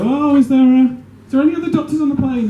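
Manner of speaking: high, loud, exasperated call; annoyed stewardess. Acted. Annoyed stewardess asks for other doctors on the plane, exasperated. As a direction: call out over the cabin, fed up. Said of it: "she'd be annoyed".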